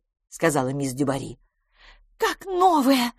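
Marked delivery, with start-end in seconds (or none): 2.2-3.1 high, delighted exclamation; exclaiming. Acted. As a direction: cry out in delight at the result. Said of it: "воскликнула мисс Лафос". (восторженно воскликнуть, высоко)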